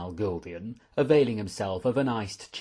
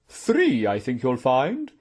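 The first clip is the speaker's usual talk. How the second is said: loud, high jump on the first word; correcting aunt; 4 semitones higher, 7 dB louder, slower than usual. Acted. Aunt corrects the count of her nephew's medals, emphatic. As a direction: correct him firmly and loudly.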